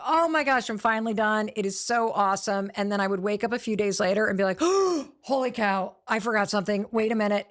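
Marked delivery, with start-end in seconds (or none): 0.1-2.7 mock relief. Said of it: "I would literally ... be like". 4.6-7.5 mock panic.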